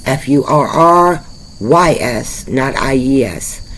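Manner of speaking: "F U R R Y S" spelled slowly, one letter at a time. Shown as a demonstration. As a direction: spell "F U R R Y S" then "not I E S", each letter separate. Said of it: "Check out their furries".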